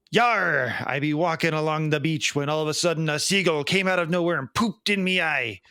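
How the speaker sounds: lightly voiced old sea pirate growling his tale; a hint of a salty pirate spinning a yarn. Joke-teller voicing the pirate to the bartender, light pirate voice. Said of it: "a pirate walks into a bar".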